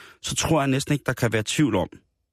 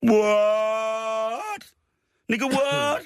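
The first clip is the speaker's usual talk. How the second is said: high shocked squeal; mock disbelief; 11 semitones higher, much slower than usual. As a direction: gasp it out in fake disbelief. Mock shock after melodrama.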